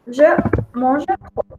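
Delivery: French said slowly and clearly; slow, careful French demo; slow model phrase. Shown as a demonstration. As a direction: spell it out slowly for learners. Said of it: "Yo como demasiado".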